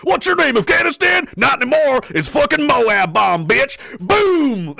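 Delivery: cocky, hammed-up warmonger crowing; gung-ho bravado. Mocking the people who bomb countries, cocky bravado. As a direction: boast it, then drag out the boom.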